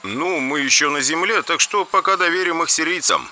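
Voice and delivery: soft voice on the cockpit intercom; over intercom. A narrator's reading. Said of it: "проговорил я по внутренней связи". (по внутренней связи, тише)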